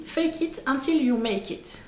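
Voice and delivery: slow, self-mocking English accent on the phrase. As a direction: lay on an English accent for a laugh. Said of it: "Avec mon super accent anglais".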